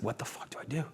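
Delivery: hushed desperate whisper to himself. Retold or imitated. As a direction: whisper it in despair. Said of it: "I was like".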